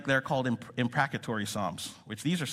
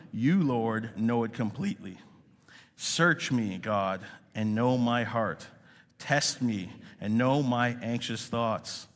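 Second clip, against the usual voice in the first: scripture reading; slower than usual. Acted. Congregational scripture reading aloud.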